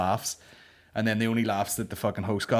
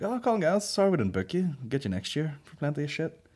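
booker voice; 6 semitones higher than usual. Retold or imitated. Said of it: "the guy who actually books the thing at the end was like".

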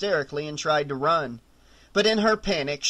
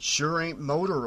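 grave. A narrator's reading. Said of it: "he said gravely".

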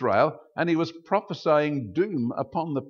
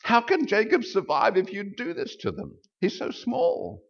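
pleading cry; 8 semitones higher than usual. Retold or imitated. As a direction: plead with God to stop. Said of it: "the prophet cried out".

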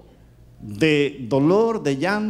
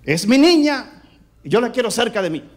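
insistent retort; 4 semitones higher, faster than usual. Retold or imitated. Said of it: "Y yo le dije".

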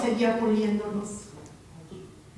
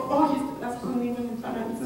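gentle promise. Retold or imitated. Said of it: "Y le dijo".

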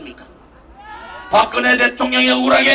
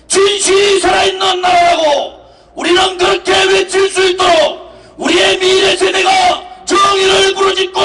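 roaring rallying speech; 3 semitones higher than usual. Real, not acted. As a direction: roar it to a crowd. Rally leader rousing crowd. (군중을 향한 우렁찬 연설)

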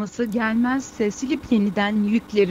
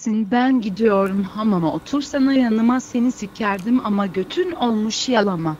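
foreigner Turkish. Acted. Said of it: "biz bu Türkçeyi yeni öğrenenlere".

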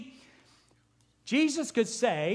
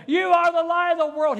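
hollering; 8 semitones higher, 8 dB louder than usual. Retold or imitated. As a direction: holler it out over the crowd. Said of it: "and said".

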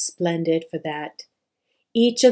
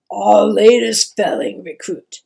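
proud introduction; 7 dB louder than usual. A narrator's reading. Father introducing son proudly.

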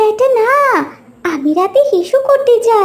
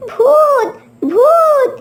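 scared cry; 4 semitones higher, much slower than usual. Acted. Mintu flees from ghost.

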